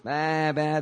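imitated sheep baa; sheep bleat. Preacher imitating dumb sheep wandering, sheep bleat. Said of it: "they're just".

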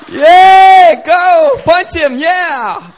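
shrieking high cheer for the underdog; mock crowd cheer. Fan cheering on churchmate Brian at fight, mock shout. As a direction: scream it like a fan ringside.

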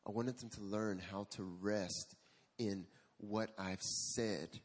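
slow, patient and tender, lightly voiced God; God gently teaching Marcus, slowly; slow gentle God voice. God explains the lesson.

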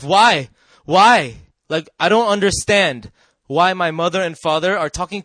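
loud, emphatic retold bewilderment; angry confusion. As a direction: demand an answer, acting out baffled frustration. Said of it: "And I was so confused".

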